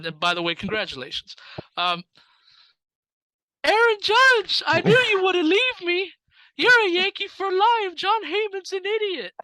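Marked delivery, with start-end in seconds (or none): 3.6-9.3 put-on very high, loud falsetto girl. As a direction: squeal it out like an over-the-top fangirl. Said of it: "continue to do the girl voice".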